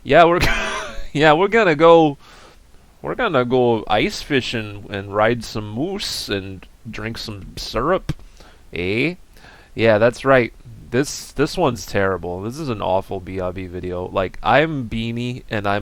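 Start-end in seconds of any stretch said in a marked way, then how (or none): 0.0-10.5 a hammed-up Canadian accent, bad on purpose. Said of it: "I feel like this isn't the right accent".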